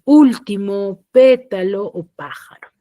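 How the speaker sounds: último, pétalo o pájaro, each first syllable punched loud; stress on first syllables. Shown as a demonstration. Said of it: "Lo mismo sucede con".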